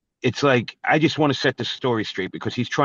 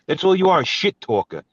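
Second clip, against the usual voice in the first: angry shout; 4 semitones higher than usual. Real, not acted. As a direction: spit the insult out hard. Insulting rival.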